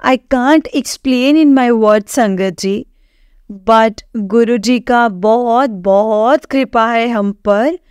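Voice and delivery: slow, sincere words of gratitude; unhurried, reverent thanks to the congregation; slow heartfelt closing. Real, not acted. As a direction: let each word land slowly in devotion. Closing devotional testimony to sangat.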